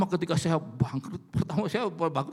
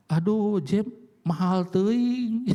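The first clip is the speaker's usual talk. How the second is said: mock grandpa groan; 4 semitones higher, 3 dB louder, much slower than usual. Grandpa voiced balking at price.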